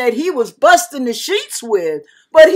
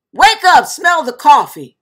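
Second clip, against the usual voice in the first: loud, higher, emphatic scolding; rousing rebuke; 4 semitones higher, 6 dB louder than usual. Retold or imitated. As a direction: jolt her awake with the words. The Lord's retold scolding.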